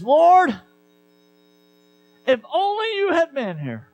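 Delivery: grieving sister crying out to Jesus; grieving plea. Acted. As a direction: plead through grief, then fade out. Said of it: "Do you see the grief in this statement?".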